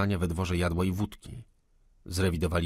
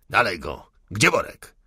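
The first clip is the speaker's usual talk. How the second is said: louder, pushing on; loud urgent order; 7 dB louder than usual. A narrator's reading. Insurgent hurrying the search, louder. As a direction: call out briskly.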